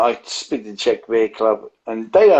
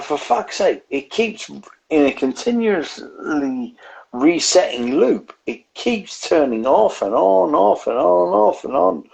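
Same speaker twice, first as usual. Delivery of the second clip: higher-pitched exasperated complaint; exasperated retelling; 5 semitones higher than usual. Retold or imitated. Man recounting his phone resetting at the event, exasperated.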